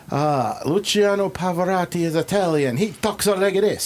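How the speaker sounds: imitating a TV character's huffy English voice; mock English accent. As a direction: ham up a pompous English gent. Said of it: "John Rhys Davies' character".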